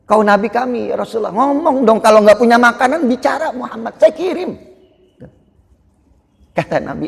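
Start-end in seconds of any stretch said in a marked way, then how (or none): 0.1-4.6 higher and louder, begging insistently; urgent pleading. Acted. Companion urgently begs the Prophet.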